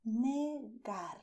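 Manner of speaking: negar split into two drawn syllables; Spanish negar. Shown as a demonstration. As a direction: say ne-gar with a pause between. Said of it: "the way I pronounce it".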